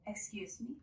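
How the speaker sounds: "Excuse me" with a soft rise on "me"; quiet, polite "Excuse me", tune going up; rising intonation. Shown as a demonstration. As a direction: let "me" lift at the end of "Excuse me". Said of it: "with a rising intonation".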